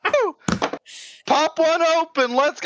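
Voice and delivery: high-pitched hollering celebration; hyped party whoop. Pretend. Cohost toasting the end of Gen six, rowdy and hyped. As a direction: holler like you're cracking drinks with the boys.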